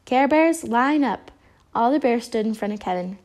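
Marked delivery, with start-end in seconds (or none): 0.1-1.3 higher, louder rallying call. A narrator's reading. Good Luck Bear summoning the bears, calling out. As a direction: call the group to order. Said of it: "took a deep breath and called".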